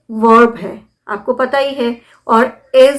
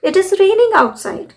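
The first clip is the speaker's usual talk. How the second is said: slow, higher teacher model sentence; slow correct model; 7 semitones higher, much slower than usual. Shown as a demonstration. Teacher giving the correct sentence slowly. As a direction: say the right version slowly and clearly. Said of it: "नहीं".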